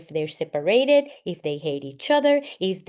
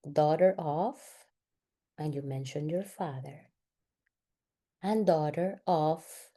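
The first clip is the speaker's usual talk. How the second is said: guided exercise; 2 semitones lower, 4 dB quieter than usual. Real, not acted. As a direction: lead them gently, phrase by phrase. Leads a guided family exercise.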